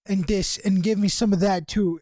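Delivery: put-on second, stronger try at his accent; imitating a rapper. Rapper pointing at the menu, put-on accent. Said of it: "I can't do his fucking accent".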